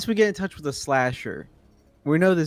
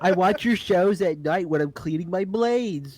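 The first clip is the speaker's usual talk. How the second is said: slow, higher put-on killer voice; crazed slasher fan; 5 semitones higher, slower than usual. Slasher confessing fandom to his idol, creepy fanboy voice. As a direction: drag it out like an adoring psycho.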